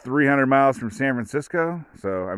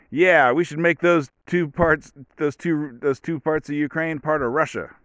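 mock baffled official getting it wrong; extra confused official; 5 semitones higher than usual. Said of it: "extra confused".

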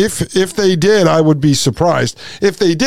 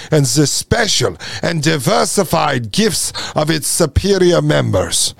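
lightly imitated Israeli accent; Yuval Noah Harari. Host mimics philosopher reading eugenics quote, mock Israeli accent. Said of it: "he talks like this".

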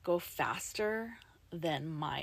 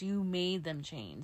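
slow, pointed air quotes; spoken air quotes; slower than usual. Retold or imitated. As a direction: say it slowly as a quoted accusation. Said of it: "making the quotation marks".

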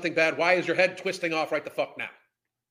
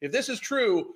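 ordinary talk

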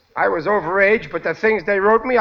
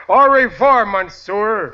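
rehearsed brush-off; 5 dB louder, slower than usual. Pretend. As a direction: act out throwing someone out. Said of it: "grab him by the seat of the pants and say".

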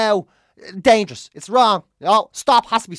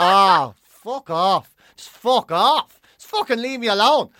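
slow, louder, fed-up brush-off; mock exasperation; 4 dB louder, slower than usual. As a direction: drag out the brush-off like you've had enough. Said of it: "You're like".

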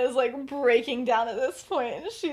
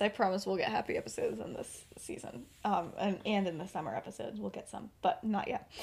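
soft, unvoiced reassurance; whispered promise; 7 dB quieter than usual. Real, not acted. Writer whispering a promise to listeners, soft.

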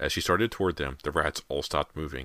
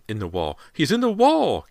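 scream; 11 semitones higher, 9 dB louder than usual. A narrator's reading. Mother locates son inside wall, screaming. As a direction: cry that leaps to a high, loud shriek. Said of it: "Callie's mother screamed".

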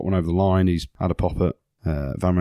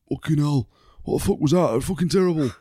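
mock rant; 6 semitones higher than usual. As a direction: tear into the referees, hammed-up. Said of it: "he's gone and said".

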